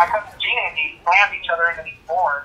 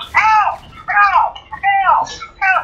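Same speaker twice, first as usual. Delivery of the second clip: high repeated mock ows; high-pitched childish ows; kids' cries of pain; much slower than usual. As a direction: whimper like hurt little kids. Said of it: "you hear in the background".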